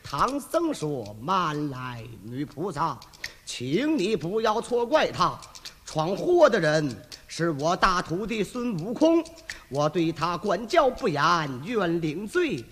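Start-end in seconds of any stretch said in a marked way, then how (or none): 1.2-12.6 low, gentle monk's voice; Tang Seng. Acted. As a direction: speak as a humble, apologetic old monk. (低沉温和的唐僧声音)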